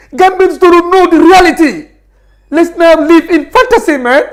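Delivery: choking up while insisting he isn't crying; emotional, near tears. Real, not acted. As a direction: voice cracking high with emotion. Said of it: "You're getting emotional".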